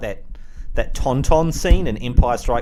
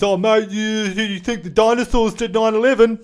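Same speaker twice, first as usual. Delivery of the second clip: high, strained crank voice; mock conspiracy theorist; 10 semitones higher, 4 dB louder than usual. Spoofing conspiracy theories, high silly voice. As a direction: push it high like an incredulous crank.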